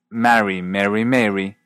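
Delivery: "marry, marry, marry" as marry, merry, mairy; three different vowels in "marry, marry, marry": a, e, ay; distinct vowels. Shown as a demonstration. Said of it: "Así que la frase".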